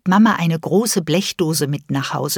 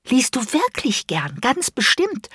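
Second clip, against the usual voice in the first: rising higher, pressing; sweetly insistent child; 6 semitones higher than usual. Acted. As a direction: push for a sure answer. Insistent repeated question.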